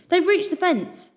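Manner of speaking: high, slow excited gasp; breathless with relief; joyful breathy gasp. A narrator's reading. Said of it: "Madame Fossard gasped".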